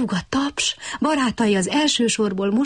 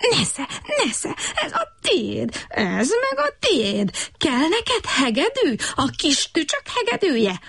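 higher, slow, punched frog voice, brawling; frog yelling in a fight; 7 semitones higher, slower than usual. A narrator's reading. Frog Brekeki brawling with Kutykurutyki, hammed-up yelling. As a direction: hit with every word. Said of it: "ordította Brekeki".

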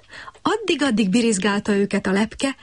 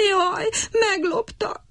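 slow, high, breathy lament near tears; bitter wailing; 11 semitones higher, slower than usual. A narrator's reading. Little cricket lamenting his stolen violin, high and tearful. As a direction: wail over the stolen fiddle. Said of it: "siránkozott keservesen".

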